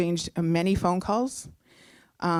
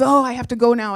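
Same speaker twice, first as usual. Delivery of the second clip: higher, louder burst of excitement; excited boyfriend; 4 semitones higher, 5 dB louder, faster than usual. Retold or imitated. Boyfriend rushing off to celebrate, imitated excitement. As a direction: blurt it eagerly, imitating him. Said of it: "he's so excited".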